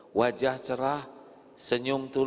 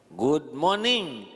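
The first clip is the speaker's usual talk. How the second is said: drawn-out greeting; 3 semitones higher, much slower than usual. Acted. Acted greeting, slow.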